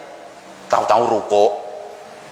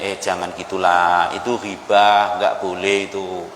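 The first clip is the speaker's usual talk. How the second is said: warning friend; 8 semitones lower than usual. Retold or imitated. Retold friend warning against gossip.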